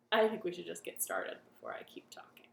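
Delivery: quick unvoiced whisper to herself; whispered aside. Real, not acted. Host whispering to herself before the song starts, whispered. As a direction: hush it out fast before starting.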